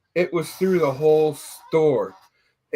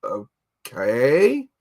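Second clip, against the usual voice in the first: skeptical okay; 5 semitones lower than usual. Retold or imitated. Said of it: "had the look on her face like".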